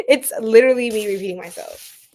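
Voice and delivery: laughing through the words; amused laughter. Real, not acted. Cracking up at her own repetition.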